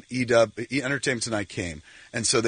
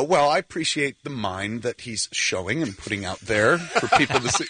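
putting on airs. Retold or imitated. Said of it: "trying to sound like a college professor".

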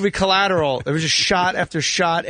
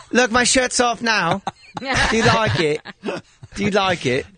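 coy flirty tease; 4 semitones higher than usual. Pretend. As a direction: tease coyly through a laugh. Voicing Kate flirting.

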